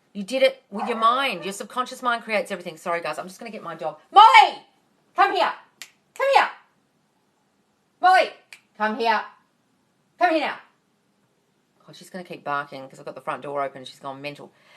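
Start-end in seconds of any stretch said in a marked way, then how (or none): 4.1-10.6 very loud, high-pitched yelling. Breaking off mid-video to call the barking dog in; yelling for the dog. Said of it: "sorry, guys, about the yelling".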